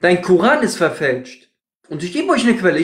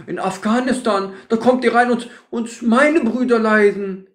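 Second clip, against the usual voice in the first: mock whiny opponent; 5 semitones higher than usual. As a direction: imitate him as a self-pitying hypocrite. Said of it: "Und dann sagt er so".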